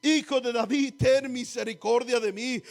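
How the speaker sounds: loud imitated plea for mercy; imitating a loud cry for help. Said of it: "comenzó a dar voces y decir".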